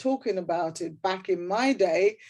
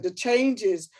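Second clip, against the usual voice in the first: reading aloud; 4 semitones higher than usual. Shown as a demonstration. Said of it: "And I wrote".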